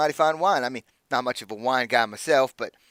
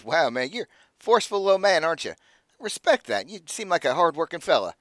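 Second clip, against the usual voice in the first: a touch higher, friendly, easygoing innkeeper type; an easy, impressed NPC, only lightly voiced; jovial merchant, pleased with the wine; lightly voiced Aldo; 4 semitones higher than usual.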